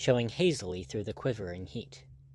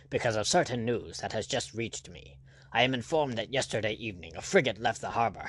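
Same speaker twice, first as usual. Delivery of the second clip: self-important. Acted. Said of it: "with scowling brow and in self-sufficient tones".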